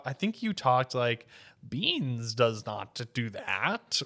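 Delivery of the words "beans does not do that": slow, silly alien-ish character voice; Jar Jar-like voice. Retold or imitated. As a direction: drag it out like Jar Jar Binks. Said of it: "sounds kind of like a little bit like Jar Jar Binks".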